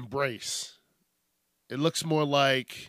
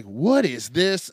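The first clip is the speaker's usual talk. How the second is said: slow, louder puzzled question; baffled; 2 semitones higher, 5 dB louder, slower than usual. Retold or imitated. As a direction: drag out the confusion. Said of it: "I was like".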